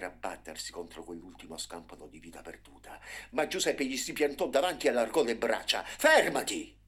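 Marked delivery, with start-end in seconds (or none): 5.8-6.8 loud, high commanding cry; boy shouting at the bulldozer to stop. A narrator's reading. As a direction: stop the machine with your voice. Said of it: "gridò".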